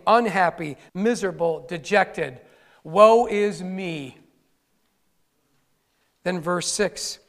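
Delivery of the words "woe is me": mock lament. Voicing Cain's misery.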